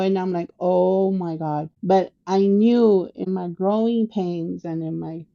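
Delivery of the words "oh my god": slow, mildly drawn-out dismay; retold dismay. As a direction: let the words out slowly, resigned to it. Dismayed at Dad's goading.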